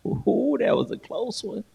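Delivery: relieved laughing exclaim. Retold or imitated. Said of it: "'cause I'm like".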